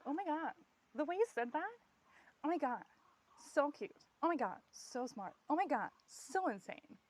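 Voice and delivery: high, gushing fan voice, mildly hammed; imitating people fawning over every word; gushing admirer. Others fawning over the speaker, mock gushing admirer. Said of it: "what others see is just like".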